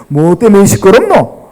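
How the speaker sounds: slow, light Gyeongsang drawl on 시끄럽노 with a falling end; Jesus asking in a relaxed Gyeongsang accent; 경상도 사투리로 느긋하게; Gyeongsang dialect. Acted. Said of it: "경상도 버전입니다".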